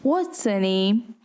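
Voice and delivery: "her" reduced, flowing into name; weak quick "her"; unstressed her. Shown as a demonstration. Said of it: "here in her is unstressed".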